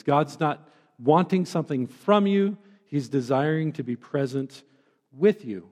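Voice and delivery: desiring given the weight, with you set apart; a second, steadier emphasis on desiring; emphasis on contrast. Shown as a demonstration. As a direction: press desiring, pause, then with you. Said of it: "with the emphasis on those two different things".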